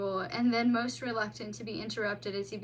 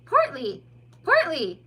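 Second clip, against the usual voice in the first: calling out; 6 semitones higher, 10 dB louder, slower than usual. Acted. Calling sleepy otter.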